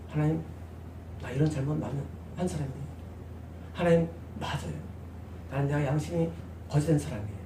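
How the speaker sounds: retelling six months of repentance, hushed; hushed confession. Retold or imitated. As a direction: confess it quietly to God. Retold repentance prayer.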